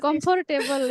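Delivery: "Comfortable" in full syllables: com-for-TAY-bul; habitual mispronunciation. Shown as a demonstration.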